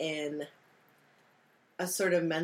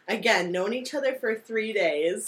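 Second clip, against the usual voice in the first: ordinary talk, nothing marked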